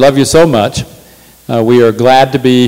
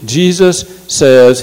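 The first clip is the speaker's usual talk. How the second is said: usual speaking voice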